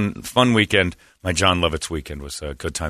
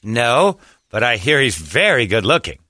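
swooping, self-admiring impression; Jon Lovitz voice; 2 semitones higher than usual. Lovitz teases fans about his looks, vain showy impression. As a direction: swoop up on the praise of yourself. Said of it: "In that voice".

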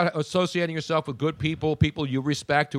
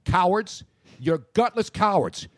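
barbarian. Real, not acted. Taunting trolls, shout heard.

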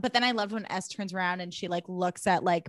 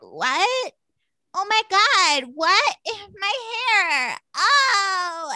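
high, loud shrieking panic; much higher, louder hammed-up cry; mock panic; 12 semitones higher, 5 dB louder, much slower than usual. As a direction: scream it as horrified Laura Lee. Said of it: "And she's like".

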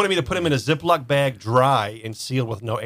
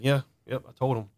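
mildly softer, unbothered delivery; retold calm; 5 dB quieter than usual. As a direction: imitate him sitting there unfazed. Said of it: "he was just as calm".

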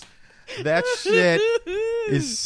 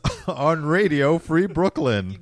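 announcer shout; 5 semitones higher, 7 dB louder than usual. Acted. Show title shout.

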